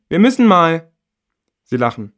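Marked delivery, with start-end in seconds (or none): 0.1-0.9 put-on high, loud teenage whine; loud high girl's plea; impatient girl calling. A narrator's reading. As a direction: call out that you need to go. Friend calling through the door.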